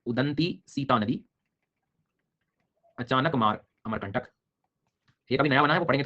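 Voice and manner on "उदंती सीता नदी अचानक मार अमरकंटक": slow, deliberate dictation of the names; slow teacher dictation. Shown as a demonstration. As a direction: dictate slowly so they can write. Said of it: "लिख के दे रहा हूँ".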